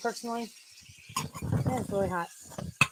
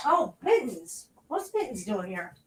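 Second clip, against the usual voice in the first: mock cat thoughts, slow start; gently voicing the cat's thoughts; 3 semitones higher, slower than usual. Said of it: "All your cat senses say".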